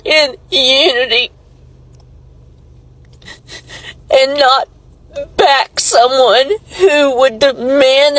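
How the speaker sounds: tearful, voice breaking; ugly crying. Real, not acted. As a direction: cry through the words. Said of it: "I'm ugly crying on it".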